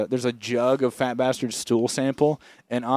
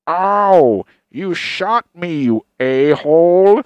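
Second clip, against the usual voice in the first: loud, slow pained mock yell; hammed-up yell over the headset mic; 4 semitones higher, 9 dB louder, much slower than usual. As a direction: yelp it like a gamer who just got shot. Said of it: "he turns on his mic ... he goes".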